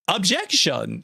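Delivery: badly faked dramatic objection; terrible Cubics impression. Streamer imagining a recorded objection, terrible impression. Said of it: "it's a terrible Cubics impression".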